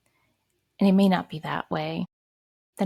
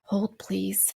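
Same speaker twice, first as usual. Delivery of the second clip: composing herself. Real, not acted. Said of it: "I had to regain strength there".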